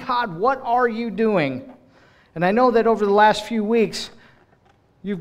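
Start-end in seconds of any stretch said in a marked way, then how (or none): 0.1-1.7 slow, raised, pleading cry to God; crying-out plea. Acted. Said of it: "they were crying out".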